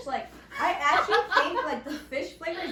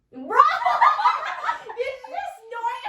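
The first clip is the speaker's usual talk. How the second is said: high, loud burst of laughter; laughing hard; 11 semitones higher, 8 dB louder than usual. Real, not acted. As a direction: crack up at the snort.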